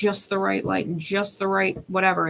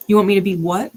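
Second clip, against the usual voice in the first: incredulous; 6 dB louder, faster than usual. Real, not acted. Incredulous rant at ex.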